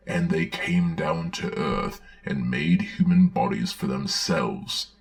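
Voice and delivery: gentle storybook reading voice; sweet, patient children's book narration. Acted. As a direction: read it like a bedtime story for kids. Reads children's Bible story.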